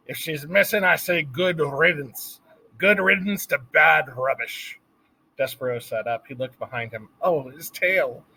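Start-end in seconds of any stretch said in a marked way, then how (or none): 0.1-4.8 shouting. A narrator's reading. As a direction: yell it, washing your hands of her. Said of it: "Louise was shouting".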